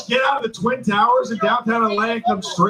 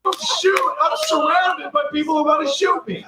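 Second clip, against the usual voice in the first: mock panic; 6 semitones higher than usual. Comic mocks his own fear.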